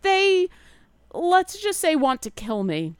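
high and loud, protesting; the bard cutting off Leogen, high and insistent; insistent bird bard. Acted.

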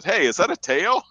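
high, loud, curious guard line; game guard's line. Acted. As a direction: call it out as a surprised question. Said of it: "there'll be a dialogue that says".

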